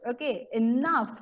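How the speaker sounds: a firm call for order on enough; mock shout. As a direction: Dumbledore calling the hall to order. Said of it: "he shouts".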